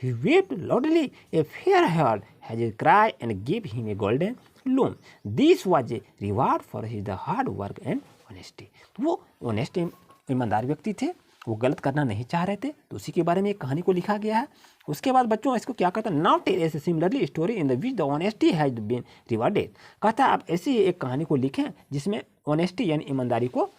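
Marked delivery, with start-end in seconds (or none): 0.0-8.6 reading the story aloud, word by word; slow, careful read-aloud for the class; slow passage reading. Acted. Teacher reading the passage to her pupils, slow and deliberate. 16.2-19.8 reading the story aloud, word by word; slow, careful read-aloud for the class; slow passage reading. Acted. Teacher reading the passage to her pupils, slow and deliberate. Reads the English task aloud.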